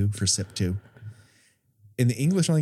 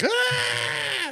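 mock scream. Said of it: "he just screams off camera like".

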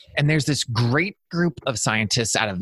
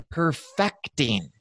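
"perfecting" stressed on FECT, drawn out; slow "perfecting", weight on the middle syllable; shifted stress; 4 dB quieter, much slower than usual. Shown as a demonstration. Coach redefines perfectionist for podcasters, stressing "perfecting" on FECT. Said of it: "putting the emphasis on the wrong part".

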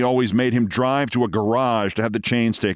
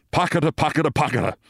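rhythmic imitation of a chugging machine; machine noise; 6 semitones higher, faster than usual. A narrator's reading. Narrator imitates the operating room machine, chugging. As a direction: chug the syllables like a machine. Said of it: "began at this moment to go".

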